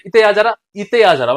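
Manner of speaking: Bundeli call to come over; Bundeli dialect. Shown as a demonstration. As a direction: demonstrate it in Bundeli speech. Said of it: "ये हो गया आपका बुंदेली". (बुंदेली लहजे में)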